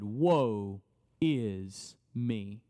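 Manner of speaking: low, very slow despairing lament; lamenting Isaiah. Acted. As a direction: groan it out like a broken prophet. Isaiah voiced in sermon.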